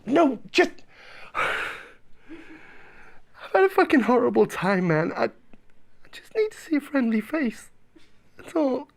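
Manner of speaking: pleading phone call. Acted.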